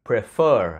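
prefer with a short clear pre. Shown as a demonstration. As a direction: clip the first vowel of prefer. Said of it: "Từ này đọc là pre". (đọc prefer với âm e ngắn)

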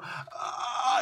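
high, restrained imitation scream; half-hearted high "aah"; mock scream. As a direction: scream into a comm without the volume. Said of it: "you know, screaming into there".

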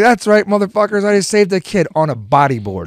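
high, loud mock-triumphant announcement; hammed-up hero's brag, starting high and loud; retold boast. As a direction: crow it to the whole beach. Retold boast to watching beach.

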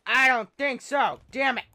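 loud, high frustrated yell; frustrated outburst. Real, not acted. Gamer getting killed, yelling in frustration. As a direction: explode at the game. Losing a fight in game.

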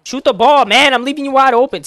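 real annoyed shout to shoot; yelling at teammate. Real, not acted.

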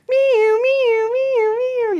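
high mock siren wail; siren imitation. Imitating the ambulance siren from far down the track, high. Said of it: "You could hear the sirens coming".

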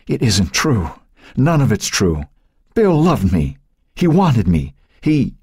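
high, pleading broken protest; broken whisper. A narrator's reading. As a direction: insist brokenly, pitch climbing. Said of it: "she whispered brokenly".

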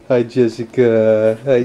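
dad gently greeting his newborn daughter; tender greeting. Real, not acted.

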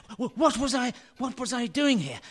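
bewildered laugh. Acted. Dirth lost in his memory, laughing confusedly. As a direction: laugh nervously as nothing makes sense.

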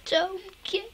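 loud exasperated yell at the game; frustrated yell. Real, not acted. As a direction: shout it out in frustration. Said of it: "Sorry I yelled".

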